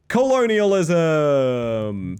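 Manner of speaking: milk colonialism as a deadpan punchline; drawn-out punchline. Acted. Joking punchline about Australia.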